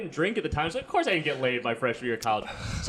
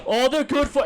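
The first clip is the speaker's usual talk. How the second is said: put-on New Jersey accent; 9 semitones higher, 6 dB louder than usual. Dad lecturing son in loud New Jersey accent. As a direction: drag it out like a blowhard Jersey dad. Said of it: "I also gave him a New Jersey accent".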